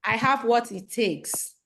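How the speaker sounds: slow, firm affirmation; booming affirmation. Shown as a demonstration. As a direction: lead the chant slowly, every word firm. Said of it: "repeat after me".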